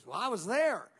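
lightly imitated Arkansas accent. Preacher quoting his friend's answer, light Arkansas accent. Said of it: "That's my Arkansas accent".

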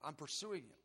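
urgent plea, starting loud then easing; acted-out protest, loud at first; pleading. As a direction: plead your case, retelling it. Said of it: "I was pleading with him".

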